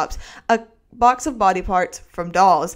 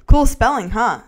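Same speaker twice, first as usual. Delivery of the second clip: cheeky note; 3 semitones higher, 6 dB louder than usual. Acted. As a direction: tease her with a grin. Note voiced as Frank.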